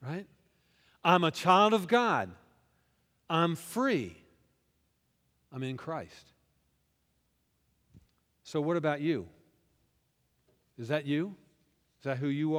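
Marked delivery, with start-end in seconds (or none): 1.0-6.3 louder, ringing affirmation; declared out loud. Shown as a demonstration. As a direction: proclaim it boldly to the room. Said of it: "Isn't that a good idea".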